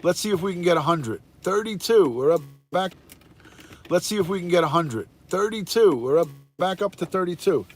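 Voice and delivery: fast auctioneer patter. Real, not acted. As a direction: call out numbers like an auctioneer. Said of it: "You sounded like an auctioneer".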